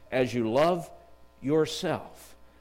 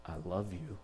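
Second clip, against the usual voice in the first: softer and lower, a tender declaration; hushed and earnest, trying his best to sound romantic; 8 semitones lower, 14 dB quieter than usual. Retold or imitated. Young man confessing love to his date by the lake, softly and tenderly. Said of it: "And I said in my best voice".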